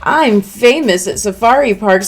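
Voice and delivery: a smug cartoon bear teasing the students; sly bear mascot. Voicing Monokuma the bear.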